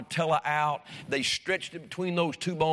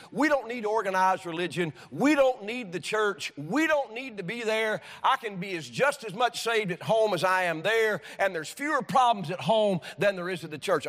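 mock skeptic; 4 semitones higher than usual. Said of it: "the idea coming out of those is".

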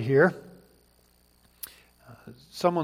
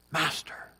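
soft breathy cry; 7 dB quieter than usual. Acted. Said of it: "he cries out".

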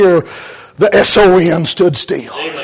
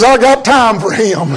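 laughing Jesus quote. Retold or imitated. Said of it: "and says".

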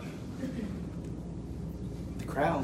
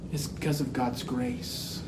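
sudden soft, lowered voice; hushed reveal; 3 semitones lower, 8 dB quieter than usual. Acted. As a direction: drop right down for the solemn answer. Sudden hush after loud preaching climax.

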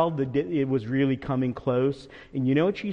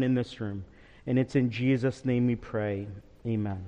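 prayer. Acted. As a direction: pray humbly before the congregation. Pastor leads congregational prayer.

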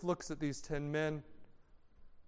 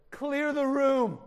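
commanding order; 7 semitones higher, 4 dB louder, slower than usual. Acted. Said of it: "He said".

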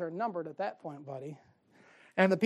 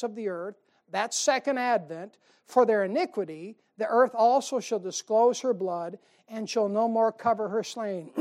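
scripture reading; 4 dB louder than usual. Acted. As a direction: read it out to the flock like holy writ. Preacher reads Isaiah passage.

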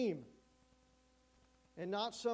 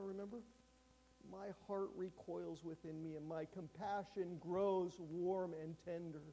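tender lament. Acted. God's tender lament voiced.

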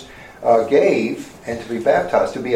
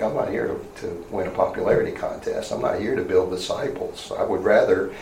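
softer, musing inner voice; John's inner thoughts; 4 semitones lower, 5 dB quieter than usual. Retold or imitated. John privately answering his disciples, soft and resolute. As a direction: think it to yourself, quietly firm. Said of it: "John thinking in his mind".

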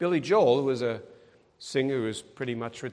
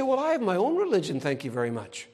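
dismissive brush-off; 3 semitones higher, faster than usual. Acted. Someone turning down talk of Jesus, dismissive. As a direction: politely shut the preacher down. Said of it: "They say".

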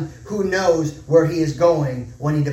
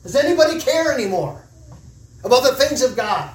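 impassioned plea; 7 semitones higher than usual. Real, not acted. Pleading rhetorical question to church.

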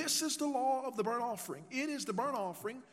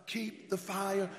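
louder call; 3 dB louder, much slower than usual. Shown as a demonstration. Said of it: "Say it louder".

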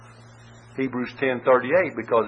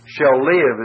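"shall live" a bit louder, falling; stress on shall live; 4 dB louder than usual. Shown as a demonstration. Preacher naming the focus word, stressed. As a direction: point at "live". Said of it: "is in view".

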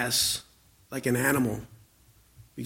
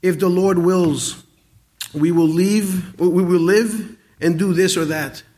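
humble earnest quote; 3 semitones higher, 4 dB louder, slower than usual. Shown as a demonstration. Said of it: "this is what we ought to say".

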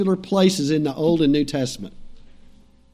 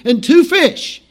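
higher-pitched, put-on Irish accent; 5 semitones higher than usual. Preacher voicing Andrew reporting the loaves to Jesus, Irish accent. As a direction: play the disciple with a lilting Irish accent. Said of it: "hear him in his best Irish accent".

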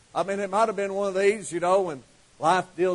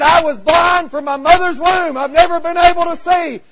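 tag; 8 semitones higher, 7 dB louder than usual. Acted. Blind man tells his story.

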